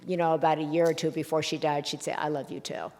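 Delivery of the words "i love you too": much softer, the words let go gently; a quiet, hard-won admission; soft I love you too. Retold or imitated. Dying mother finally answering her son's love, soft and quiet.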